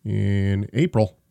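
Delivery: choking on water mid-sentence; water down the wrong pipe; coughing up water. Real, not acted. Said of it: "Are you dying over there?".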